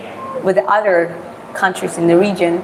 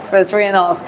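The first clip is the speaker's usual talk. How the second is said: exaggerated Texan twang, rising and falling; Texan accent with roller-coaster intonation; Texan country accent. Shown as a demonstration. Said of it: "some country accent sounds to me from Texas".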